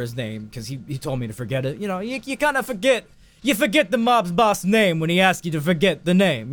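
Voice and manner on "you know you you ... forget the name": lightly hammed-up high protest; mock-defensive excuse. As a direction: pitch jumping up high. Mock-defensive excuse about the boss.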